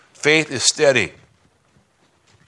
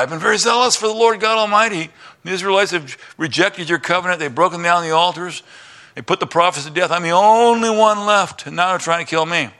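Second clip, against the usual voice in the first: whining prophet; 4 semitones higher than usual. Acted. Elijah answering God again.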